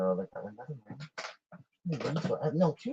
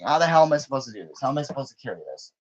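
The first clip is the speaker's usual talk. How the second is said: inner panic; 3 semitones higher, 5 dB louder, faster than usual. Retold or imitated. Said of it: "sitting here questioning".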